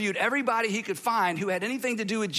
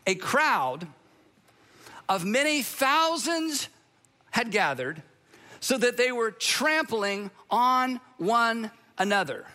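scripture reading; 3 semitones higher, slower than usual. Acted. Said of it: "Here's what Luke says happened".

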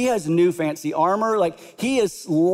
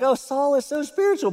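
much higher, gushing mock awe; mock naive; 9 semitones higher than usual. Preacher mocking readers who admire Saul, gushing.

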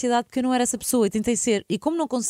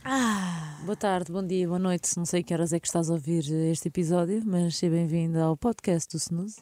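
ASMR voice; 2 semitones lower than usual. Acted. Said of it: "parecemos aqui numa espécie de A S M R".

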